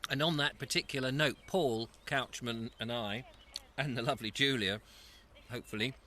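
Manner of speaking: talking with a mouth full of food. Real, not acted. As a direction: speak round a mouthful of food. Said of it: "sorry to talk with my mouth full".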